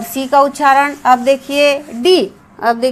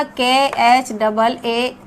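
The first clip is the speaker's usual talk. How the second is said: slow spelling; slower than usual. Shown as a demonstration. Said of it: "अब देखिए खा".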